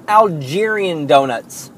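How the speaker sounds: "Algerian" said al-JEER-ee-un in place of allergen; mispronounced allergen. Retold or imitated. Customer misreading the allergen sign, confident Algerian mispronunciation. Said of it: "my favorite mispronunciation stories".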